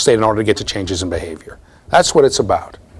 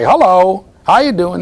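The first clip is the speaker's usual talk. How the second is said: higher-pitched imitation of a greeting bird; talking mynah bird; 5 semitones higher, slower than usual. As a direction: lightly mimic a trained bird's greeting. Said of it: "there was a mynah bird".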